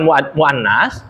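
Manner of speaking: "muannas" said slowly, syllable by syllable, with a restart; careful Arabic term. Shown as a demonstration. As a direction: sound out "muannas" slowly for the class. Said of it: "teacher says the Arabic term".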